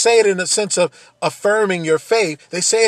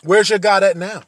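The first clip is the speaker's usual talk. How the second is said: louder jeering question; scornful taunt; 2 semitones higher, 6 dB louder than usual. Retold or imitated. Someone taunting a believer about God, a loud scornful jeer. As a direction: throw the question back in their face. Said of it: "I heard somebody say this one time".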